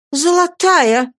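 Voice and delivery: high, loud, drawn-out cry; greedy exclamation. A narrator's reading. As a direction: gasp it out with greed, slowly. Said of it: "воскликнула надзирательница".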